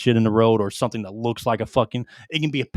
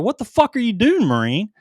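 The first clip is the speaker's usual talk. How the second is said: sharp higher yell at a running soldier; retold yell; 9 semitones higher, 4 dB louder than usual. Sergeant yelling at his panicking Marine, mock yell. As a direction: bark the question out like a sergeant. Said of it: "I yelled at him".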